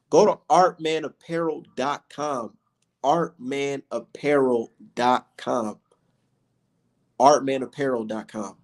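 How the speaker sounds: slow, deliberate plug for the store. Shown as a demonstration. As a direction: spell out the website slowly. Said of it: "plugging his website slowly".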